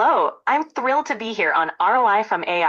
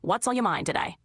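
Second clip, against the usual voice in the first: put-on a light Australian accent; a hint of Aussie accent on a friendly question; mild Australian accent; 3 dB quieter than usual. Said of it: "Let's switch to an Australian accent".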